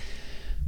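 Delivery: soft imitated puff of exertion; out-of-breath exhale. Shown as a demonstration. Player showing how he pants atop a climb, acted breathlessness. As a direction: breathe out heavily, as if winded. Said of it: "like, out of breath".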